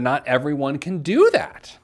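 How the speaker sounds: mock objection with an exaggerated swoop on "do that"; pointed quoted inflection. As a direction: quote it with a pitch jump near the end. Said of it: "I like my inflection there".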